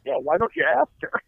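mock the guy with exaggerated sarcasm; sarcastic. Husband mocking the strip club invite, heavily sarcastic. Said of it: "as much sarcasm as I possibly could".

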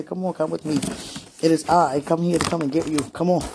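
lightly voiced suitor at the door; imagined sweetie calling. Woman imagines sweetie knocking on her door, lightly voiced summons. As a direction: put on a mildly formal summons, playfully. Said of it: "You don't even talk like that".

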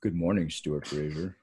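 understated radio host greeting. Shown as a demonstration. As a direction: try a modest radio voice. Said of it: "let's hear your best radio voice".

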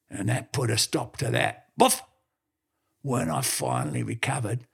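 lightly gruff dog telling tales; a hint of an old yarn-spinning heeler; old blue heeler boasting to the businessman, mildly gruff; gruff talking dog. The dog's long story voice.

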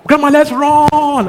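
put-on high, slow excited little girl; excited child. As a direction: call out to grandma like a thrilled child.

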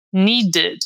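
"Needed" as NEE-ded, falling at the end; model pronunciation. Shown as a demonstration. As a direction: articulate "Needed" with an unstressed "ed" syllable. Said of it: "É só acrescentar um ed". ("Needed" bem articulado, com "ed" fraco no final)

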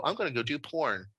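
quiet, mildly deadpan retold reply; stone-faced. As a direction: drop it softly, keeping a straight face. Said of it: "And I'm stone-faced".

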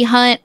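"hunt" with a drawn-out Southern vowel. Real, not acted. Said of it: "You just said hunt really Southern".

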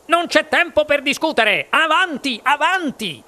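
fast, high-pitched urging; hurrying Wonka. A narrator's reading. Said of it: "disse il signor Wonka". (incitamento concitato, veloce e acuto)

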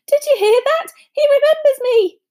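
loud, high-pitched boast to everyone; overjoyed fan crying out; excited cry. A narrator's reading. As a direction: announce it to the room, thrilled. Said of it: "cried Dedalus Diggle, looking around".

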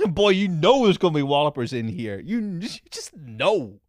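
amused and knowing, laugh in the voice; laughing anticipation. Real, not acted. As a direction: break into a laugh while talking, pitch rising. Laughing at expected silly replies.

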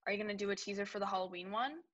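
a sharp, accusing read of the question. Shown as a demonstration. Izzy reading Caitlin's text as an accusation. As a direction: read it like a demand. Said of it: "This is how I interpret that".

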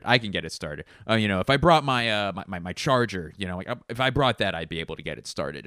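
loud, confident mock mechanic; know-it-all guy. Mocking men who must look under the hood, loud and cocky. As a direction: bluster like every guy at an engine. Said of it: "and be like".

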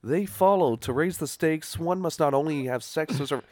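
casual conversational delivery; natural reading. Shown as a demonstration. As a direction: read it like normal talking. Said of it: "you know, like someone's talking".

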